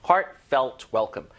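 "heartfelt welcome" drawn out very slowly; slow model reading. Shown as a demonstration. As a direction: spell it out slowly for the class. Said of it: "welcome에다 많이 붙입니다". (아주 천천히 또박또박 시범 읽기)

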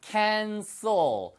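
"cancel" ending in a clear l. Shown as a demonstration. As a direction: close "cancel" with the tongue on an l. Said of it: "을 발음을 하시면은 취소하다는 뜻이에요".

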